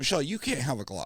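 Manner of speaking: ordinary talk, nothing marked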